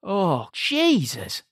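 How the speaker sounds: high, strained mock rant; Sinbad ranting. Imitating Sinbad ranting at corporate guys, high and frantic. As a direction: ham up a manic shouting rant.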